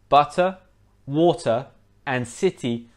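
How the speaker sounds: butter, water, city with T's fully sounded; clear British T. Shown as a demonstration. Teacher listing examples of T between vowels, clear T. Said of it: "other examples of a T between".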